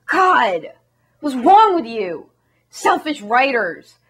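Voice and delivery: mock scoffing producers. Producers scoff at the striking writers, indignant. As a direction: scoff and huff at selfish writers. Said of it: "the producers are all like".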